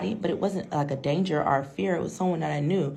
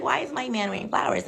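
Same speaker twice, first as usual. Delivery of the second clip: shocked; 8 semitones higher than usual. Retold or imitated. Woman shocked.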